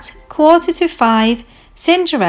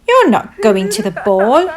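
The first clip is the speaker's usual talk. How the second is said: jeering with a laugh; cruel, taunting amusement; mocking laugh; 4 dB louder than usual. Stepsisters and stepmother shutting Cinderella out, laughing cruelly. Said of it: "laughed her cruel stepsisters and stepmother".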